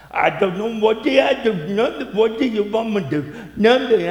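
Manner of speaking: high, pleading voice of a wife who can't explain her tears; imitating whiny wife. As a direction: play the wife, high and helpless. Preacher acts out his wife's answers.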